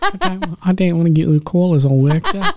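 a hint of a timid radio caller voice, laughing; mock Kiwi radio host. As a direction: play a shy host, half-laughing. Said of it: "You're like".

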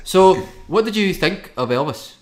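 high, loud mock interviewer question; mocking impression of co-host. Guest showing the host how he looked asking about Elvis, mocking impression. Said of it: "you were like this".

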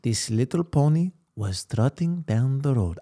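put-on slow, light Mexican-accented storytelling; a hint of a Mexican accent, unhurried. Bedtime story for a sleepy friend, light Mexican accent. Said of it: "That was, like, Mexican a little bit".

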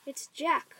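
high, loud cry of alarm; bellow. A narrator's reading. Nightmare giant spotting Jack, frightened bellow. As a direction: bellow it in terror. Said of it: "bellowed the flesh lump eater".

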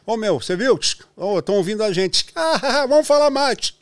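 high, loud radio chatter with laughs; mock pirate radio guys laughing; over walkie talkie. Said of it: "soltava o segundo cartucho".

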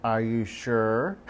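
incredulous, drawn-out check with a patient; slow skeptical question. Retold or imitated. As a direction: drag it out in disbelief. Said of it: "and I'm like".

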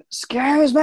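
high shouted excuse me; loud excuse me. Retold or imitated. Blocked at the office door, a high shout. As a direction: bellow it at the blockers. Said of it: "I went really loud".

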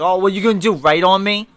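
mock him like a bully; imitating a smug taunt; mocking sneer. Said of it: "he makes fun of him".

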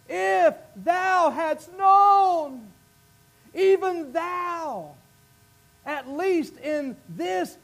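slow, high, cried-out opening, then aching; Jesus weeping over the city, slow lament. Acted. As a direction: plead slowly over the city. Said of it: "he's weeping".

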